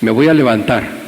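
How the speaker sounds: voz del hermano tirado, un poco más grave; con esta voz. Retold or imitated. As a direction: dilo tendido en la lona, sin fuerza. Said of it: "así, con esta voz". (el creyente caído responde con voz baja)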